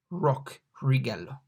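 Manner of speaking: righello with the R of rock; English R. Shown as a demonstration. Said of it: "Use the R in rock".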